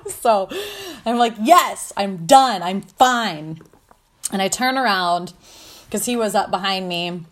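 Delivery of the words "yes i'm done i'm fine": loud, curt retold snap; irritated retort. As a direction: snap it back like someone fed up. Snaps back after being asked.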